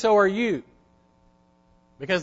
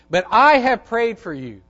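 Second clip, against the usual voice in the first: emphatic quote; 5 semitones higher, 7 dB louder than usual. Acted. Preacher repeats Jesus' promise loudly.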